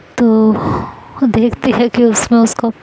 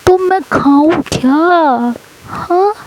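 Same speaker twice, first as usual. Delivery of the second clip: exasperated; 6 semitones higher, slower than usual. Acted. Husband complaining about food.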